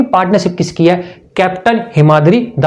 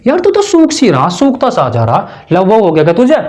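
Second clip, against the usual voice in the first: teasing friend. Retold or imitated. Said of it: "तो क्या बोलते हैं?".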